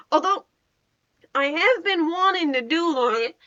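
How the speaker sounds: slipping into a Southern accent; Southern US lilt sneaking in. Real, not acted. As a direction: let a light Southern twang creep in unprompted. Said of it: "I'm turning southern again".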